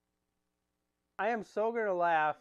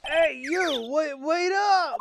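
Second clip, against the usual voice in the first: calling out; 6 semitones higher, 6 dB louder, slower than usual. Acted. Calling after them.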